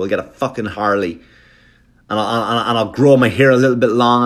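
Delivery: acted, worked-up husband's rant; angry biker husband. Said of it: "unnecessary anger there".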